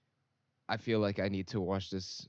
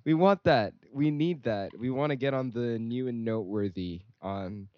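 put-on light Singlish accent, upbeat plug; 5 dB louder than usual. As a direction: Singaporean English lilt, lightly done. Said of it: "if you guys want me to do my Singlish accent again".

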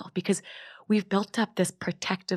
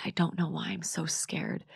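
whispered confession; 6 dB quieter than usual. Retold or imitated. Confession to business groups.

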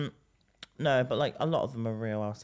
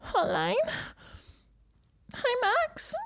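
sultry hotline voice; 5 dB louder, slower than usual. Pretend. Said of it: "I'll be like".

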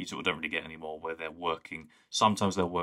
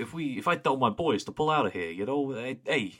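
tough-guy construction worker impression, pitched up; 5 semitones higher, 4 dB louder than usual. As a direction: play a loud, higher-voiced construction guy. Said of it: "construction guy to meet the Dalek".

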